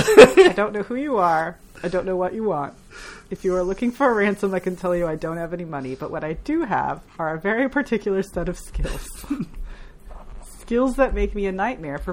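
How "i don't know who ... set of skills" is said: lightly voiced Liam Neeson, a hint of an Irish accent; Liam Neeson quote. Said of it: "in your best Irish accent".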